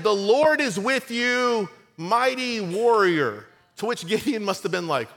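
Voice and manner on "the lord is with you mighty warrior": slow, raised voice of the angel; grand proclamation. Acted. Preacher voices the angel hailing frightened Gideon, slow and grand. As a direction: announce it slowly like a heavenly messenger.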